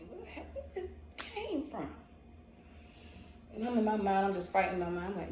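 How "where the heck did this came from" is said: high laughing disbelief; laughing surprise. Retold or imitated. Sudden attraction, high laughing surprise. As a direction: squeal it in disbelief.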